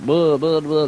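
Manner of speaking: nonsense syllables in a Southern accent; quick Southern-accent impression; mock Southern accent. Shown as a demonstration. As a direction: babble like a Southern accent parody. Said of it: "You can do a Southern accent".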